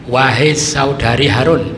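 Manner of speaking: slow, loud call of the accusing townsfolk; accusing crowd. Retold or imitated. Townsfolk confronting Maryam, slow loud accusing call. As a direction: draw out the address like an accuser. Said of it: "Mereka bilang".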